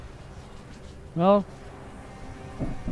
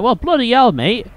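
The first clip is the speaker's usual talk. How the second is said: hammed-up English rant, much higher and louder; angry English accent; 8 semitones higher, 5 dB louder than usual. Caster mocking his own angry self as English, exaggerated rant. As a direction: play the furious Brit over spilled tea. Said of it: "Do I get more English when angry?".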